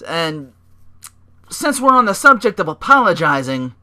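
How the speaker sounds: hammed-up Heyman hype; Heyman promo impression. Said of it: "Heyman's like".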